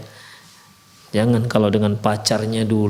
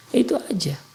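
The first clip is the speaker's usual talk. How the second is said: whisper; 9 semitones higher than usual. Real, not acted. Aside to the wives.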